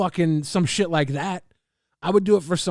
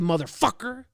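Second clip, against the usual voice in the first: louder, snapping back with the same energy; angry loud retort; 3 semitones higher, 4 dB louder than usual. Acted. Streamer snapping back at a chat critic, loud and angry. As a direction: throw his attitude right back at him. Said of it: "I like getting loud".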